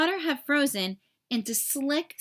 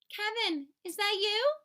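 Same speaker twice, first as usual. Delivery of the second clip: mother's voice; 9 semitones higher than usual. Acted. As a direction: call to your son, surprised and gentle. Mother returns home, calls Kevin.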